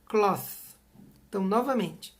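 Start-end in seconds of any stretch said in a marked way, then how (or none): 0.1-0.8 cloth said with th like thin, tongue out; English cloth. Shown as a demonstration. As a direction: say cloth with a clear th. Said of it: "treine diante do espelho".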